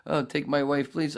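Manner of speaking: a lightly voiced Henny Youngman gag; Henny Youngman impression. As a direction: deliver it like a vaudeville one-liner. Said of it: "Henny Youngman thing and went".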